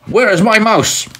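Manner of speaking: high cat voice, demanding; cat's voice. Acted. Grandma voicing the cat Simpkin, high and demanding. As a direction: squeak it out as the cat. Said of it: "if Simpkin had been asked to talk, he would have said".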